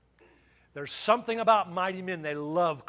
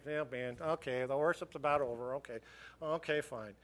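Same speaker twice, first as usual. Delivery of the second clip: low, softer, half-hearted churchgoer; mock indifference; 4 semitones lower, 5 dB quieter than usual. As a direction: shrug it off as if worship means little.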